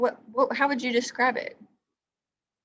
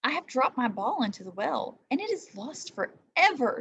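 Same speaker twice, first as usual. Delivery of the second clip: wailing; 4 semitones higher than usual. Acted. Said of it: "she wailed".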